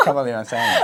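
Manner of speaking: words bubbling over a laugh; embarrassed laughing. Real, not acted. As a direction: speak through laughter. Laughing at own embarrassing example.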